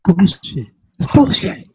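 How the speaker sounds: high, loud raging gamer; gamer rage yell. Retold or imitated. Gamer yelling at Call of Duty.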